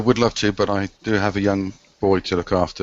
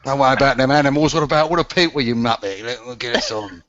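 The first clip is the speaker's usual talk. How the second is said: Ray Winston voice; 3 semitones higher than usual. Retold or imitated. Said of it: "Ray Winston".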